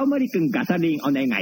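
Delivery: lightly voiced impression of an older colleague; せんべい兄貴. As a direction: imitate a senior colleague placing an order. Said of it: "せんべい兄貴とかよくやるじゃん".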